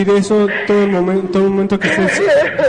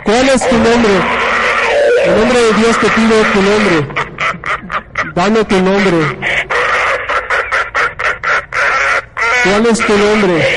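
commanding demand; slower than usual. Real, not acted. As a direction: order the spirit to name itself. Exige nombre a la presencia. (exigencia firme y fuerte)

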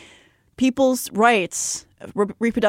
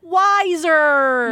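mock-wise echo; 9 semitones higher, 4 dB louder than usual. Playfully echoing the word.

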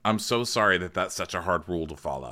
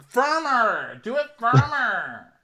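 loud high demand to be firmer; loud coaching shout; firm command; 5 dB louder, much slower than usual. Retold or imitated. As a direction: bark it like a coach pushing harder. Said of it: "She's like".

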